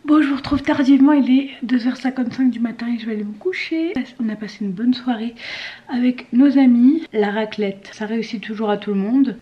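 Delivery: slight lisp from dental aligners. Real, not acted. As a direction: speak around thick aligners with a lisp. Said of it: "Désolée si je zozote".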